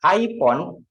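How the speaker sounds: "iPhone" with a p in place of the f, "ai-pon"; mistaken p sound. Shown as a demonstration. Teacher warning students about a slip, mistaken p for f. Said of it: "Harusnya bilang iPhone".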